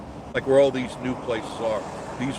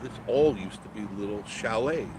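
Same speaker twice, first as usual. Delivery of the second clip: on a bumpy road. Real, not acted. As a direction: voice jolted by a shaking car. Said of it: "Sorry for the shaking".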